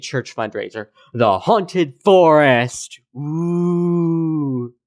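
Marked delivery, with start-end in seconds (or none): 1.1-3.0 slow, drawn-out spooky tease. Pretend. Halloween fundraiser, spooky tease. 3.2-4.7 a drawn-out mock ghost moan; a playful haunted-house ooh; ghostly ooh. Spooky sound after Haunted Forest.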